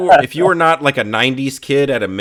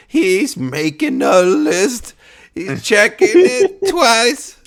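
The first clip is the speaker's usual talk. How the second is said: slow, higher singsong; slow singsong mock; 9 semitones higher, 3 dB louder, much slower than usual. Joker taunts his boss in a slow singsong. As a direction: drag each word out playfully. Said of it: "and he's like".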